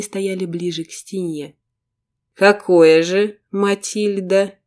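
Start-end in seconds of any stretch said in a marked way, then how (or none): 2.3-4.5 slow words squeezed through clenched teeth; through gritted teeth. Acted. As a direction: hiss it out with the jaw locked. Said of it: "процедил сквозь стиснутые зубы".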